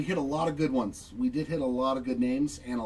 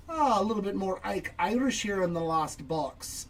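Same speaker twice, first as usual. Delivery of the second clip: a hint of an Irish lilt, slightly higher; faint Irish accent while calling cards; 5 semitones higher than usual. Real, not acted. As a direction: slip into a light Irish accent. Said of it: "started talking with an Irish accent".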